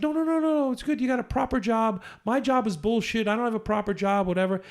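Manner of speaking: lightly playing her waving away her job; mock self-deprecating woman. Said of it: "she's like".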